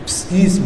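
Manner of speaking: psgisma said softly and carefully; Greek word. Shown as a demonstration. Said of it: "Es difícil".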